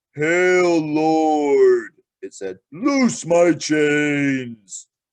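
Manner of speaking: booming god voice with "Lord" stretched out. Narrator reads a river god rising from the water to greet Aslan, deep voice. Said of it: "out of its mouth a deep voice came".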